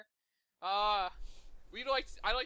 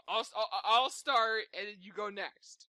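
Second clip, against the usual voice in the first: laughing; 4 dB louder, slower than usual. Real, not acted. Flustered, laughing through it.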